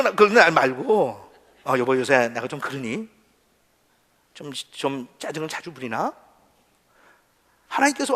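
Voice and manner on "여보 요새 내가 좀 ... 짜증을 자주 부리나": gentle self-doubt. Acted. Husband humbly asking wife about his irritability, gentle. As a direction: ask meekly, ready to admit fault.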